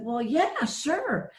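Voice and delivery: imitating mom's cheerful yes, lifting high on the last word; delighted agreement. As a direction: agree brightly, as through a big smile. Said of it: "with this big, bright smile".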